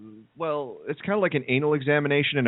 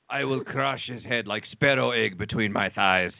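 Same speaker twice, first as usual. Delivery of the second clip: put-on Russian accent; 2 semitones lower, slower than usual. Russian wrestler quote, thick accent.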